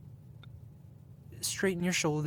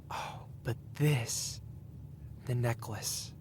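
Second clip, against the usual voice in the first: hushed awe; 3 dB quieter, slower than usual. Acted. Reveals prized necklace, hushed awe.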